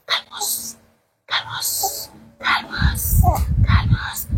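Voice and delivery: whispered, fading hush; soft whisper. Real, not acted. Hushing the crying baby to calm down, whispered. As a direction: hush it like soothing a newborn.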